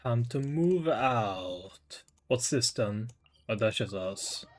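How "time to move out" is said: drawn-out echo. Retold or imitated. Echoing game's order, drawn out.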